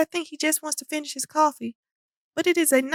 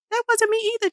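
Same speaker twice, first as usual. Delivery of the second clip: higher, panicked yell; 7 semitones higher, faster than usual. A narrator's reading. Jack yelling his denial to the class. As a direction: deny it desperately. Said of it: "Jack yells".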